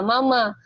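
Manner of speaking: first "ma" toned, second "ma" light; "mama" with a toneless second "ma"; neutral tone demo. Shown as a demonstration. Teacher gives an example word. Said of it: "ma yang kedua nggak ada nadanya".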